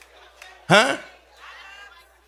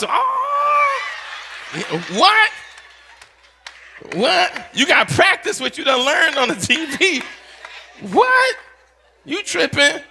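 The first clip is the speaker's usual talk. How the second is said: excited shouting; 8 semitones higher than usual. Retold or imitated. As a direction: holler at your friends like a kid. Kids calling out in street.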